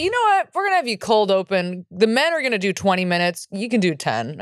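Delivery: a hint of a condescending booker; mock booker. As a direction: brush her off like a smug booker. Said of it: "They'll say".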